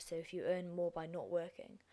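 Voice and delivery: ordinary delivery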